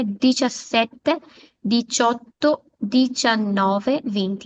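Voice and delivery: "Diciassette, diciotto, diciannove" said slowly with a crisp ch sound. Shown as a demonstration. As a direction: stress the ch in each number. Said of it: "च की sound आनी चाहिए".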